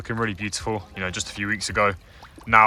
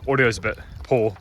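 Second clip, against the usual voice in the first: wind on mic. Real, not acted. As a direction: wind noise on microphone. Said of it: "Please do excuse the wind".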